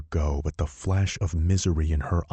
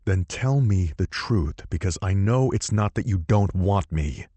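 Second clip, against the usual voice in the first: demanding; 3 semitones higher than usual. Acted. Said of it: "I demand".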